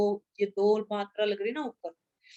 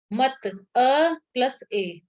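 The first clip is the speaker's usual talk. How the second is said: slow dictation; 3 semitones higher, 3 dB louder, much slower than usual. Shown as a demonstration. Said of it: "teacher spells out the formula".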